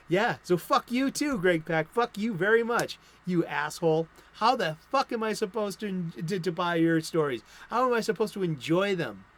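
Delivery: real indignant outburst, punching the swear words; angry rant. Real, not acted. Comic fan cursing a writer who blocked him, angry. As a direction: rant at someone who slighted you. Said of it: "I am so angry".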